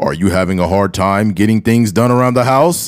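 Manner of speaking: put-on deep, low commercial voice-over. Mimicking a guy who always uses the same voice: deep put-on voice. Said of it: "it'd be a deep voice to be like".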